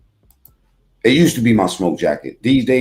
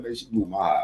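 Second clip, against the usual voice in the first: mumbled, much softer lazy stoner complaint; mock stoner husband; 2 semitones lower, 9 dB quieter than usual. Streamer mocking the stepdad watching the game, muttered lazily. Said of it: "He's like".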